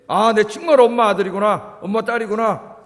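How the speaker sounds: put-on relieved child.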